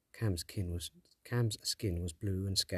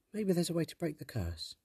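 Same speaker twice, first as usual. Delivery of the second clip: put-on young girl voice; 9 semitones higher than usual. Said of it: "Tess asked suddenly".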